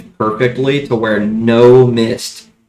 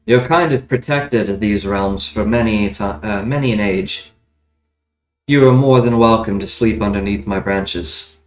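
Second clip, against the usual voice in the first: talking tree; 3 semitones lower than usual. Acted. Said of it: "the tree speaks back to you".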